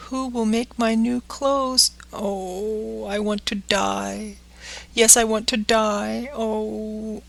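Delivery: lightly voiced boy's lament, rising in grief; grieving puppet boy. Pinocchio weeping at the fairy's grave, a mild grieving boy voice. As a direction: plead with the dead fairy, near tears.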